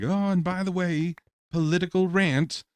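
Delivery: high, breezy mock aside; mock announcer. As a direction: imitate a casual rant intro. Mimicking a political video.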